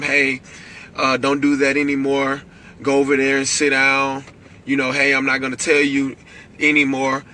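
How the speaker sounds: put-on even, patient warning to a child; a parent's first calm telling-off. Shown as a demonstration. Parent calmly warning a misbehaving child, calm voice. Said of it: "you start off in a calm voice".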